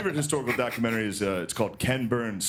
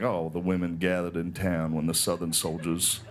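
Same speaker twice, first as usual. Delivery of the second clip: lower, dreamy old Southern gentleman, lightly voiced; Shelby Foote impression; 5 semitones lower than usual. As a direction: savor every word like a doting old Southerner. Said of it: "he's like".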